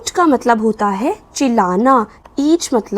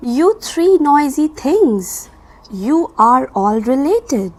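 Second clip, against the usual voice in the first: early bird voice; much slower than usual. Acted. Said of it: "she said to the worm".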